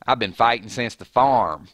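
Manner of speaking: Maggie. Acted. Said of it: "I can do a Georgia accent".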